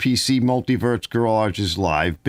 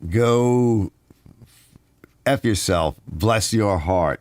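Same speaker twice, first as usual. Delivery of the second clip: slow, half-hearted Southern drawl; attempted Southern accent; much slower than usual. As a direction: try a Southern accent, not quite landing it. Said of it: "I can't do it in Southern accent".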